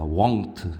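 won't modelled alone with a rounded, gliding vowel; won't, said deliberately so it differs from want; careful won't pronunciation. Shown as a demonstration. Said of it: "이게 되게 중요한 발음입니다".

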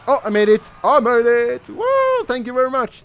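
loud, high cheering; triumphant celebration. Real, not acted. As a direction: whoop with delight at winning. Celebrates passing the level.

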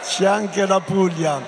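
calling out la Puglia over the crowd; announcing la Puglia to the cheering crowd; called out. Real, not acted. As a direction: shout it to the back of the hall. Repeats Puglia louder after cheers.

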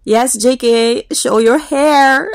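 playful echo. Real, not acted. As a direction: call to him like a fan, drawn out. Echoing idol's request.

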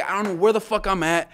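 high, forceful exclamation; exasperated shout. Retold or imitated. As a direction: re-enact hollering that you're lost. Re-enacts lost plea to soldiers.

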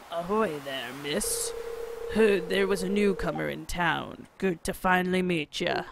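a hint of a salty sailor greeting a newcomer; gruff fisherman voice. Voicing the fisherman as he greets the newcomer, lightly gruff. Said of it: "what should I do his voice".

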